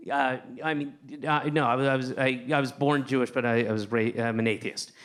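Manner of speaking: halting, false starts and restarts; stumbling. Retold or imitated. Comic answers a stranger's question at the corner, stumbling. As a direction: stumble over a reluctant answer. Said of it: "even though I'm stumbling when I'm talking to him".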